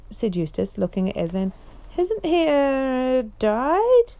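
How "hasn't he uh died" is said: high, rising disbelieving question; can't believe what he's asking; alarmed question. Acted. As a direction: Eustace asking the lion about a dead king, high and alarmed. Eustace fears Caspian is dead.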